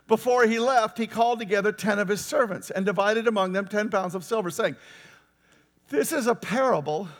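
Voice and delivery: reading the parable aloud with a lightly voiced king; a storyteller's reading, lightly voicing each figure; a sermon reading of a parable; scripture reading.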